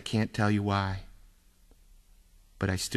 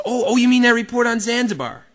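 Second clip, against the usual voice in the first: high, louder fake surprise; feigned innocence; 11 semitones higher, 5 dB louder than usual.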